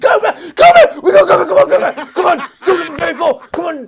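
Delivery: shouting and laughing, very high; excited cheering. Real, not acted. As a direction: scream for your favourite to win. Cheering on his duck.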